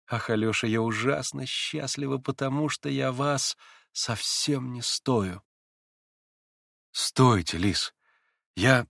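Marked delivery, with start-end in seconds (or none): 0.1-5.4 softer and slower, moved; girl telling Alyosha she is unworthy; tender, softened confession. Acted. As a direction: say it gently, overcome with happiness. Lise softly moved.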